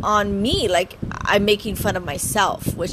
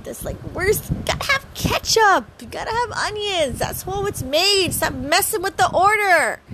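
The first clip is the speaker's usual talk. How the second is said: playful rant; 6 semitones higher than usual. Acted. Mock customer rant.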